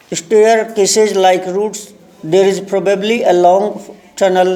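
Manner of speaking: very slow, deliberate English reading; lesson read-aloud. Shown as a demonstration. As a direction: read it out word by word for learners. Reads the lesson aloud slowly. (धीरे-धीरे, शब्द-दर-शब्द पाठ पढ़ना)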